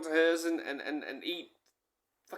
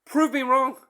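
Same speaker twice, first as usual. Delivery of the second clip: defiant challenge; 6 semitones higher, 5 dB louder than usual. Retold or imitated. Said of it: "I said".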